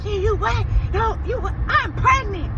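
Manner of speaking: high, shrieky back-and-forth; acting out stunned sisters, very high; retold outburst. Retelling excited phone call with sister.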